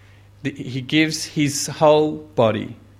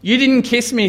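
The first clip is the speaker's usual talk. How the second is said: voicing Jesus; 9 semitones higher, 4 dB louder than usual. Jesus quoted, reproachful.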